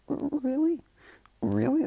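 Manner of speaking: amazed father. Acted. Husband hearing his wife's news, amazed. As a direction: burst out in astonishment.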